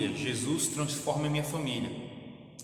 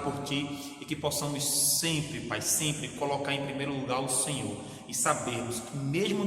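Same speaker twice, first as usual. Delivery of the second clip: fervent pastor's prayer, swelling on each Pai; closing prayer. Acted. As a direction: pray for the sick and grieving, rising with feeling. (oração fervorosa de pastor)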